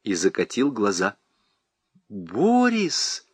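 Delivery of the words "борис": softly calling her husband's name; tender. A narrator's reading. Wife gently calls her husband. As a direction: say his name gently, with affection. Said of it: "ласково сказала Катя".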